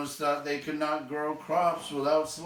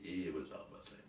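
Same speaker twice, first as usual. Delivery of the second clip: deadpan retort; 7 semitones lower, 13 dB quieter, much faster than usual. Real, not acted. Deadpan rebuttal to the quote.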